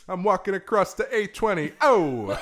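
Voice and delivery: high, hammed-up Bronx accent; Italian Bronx guy. Bronx mailman crossing a British road, hammed-up accent. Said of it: "He's an Italian Bronx guy".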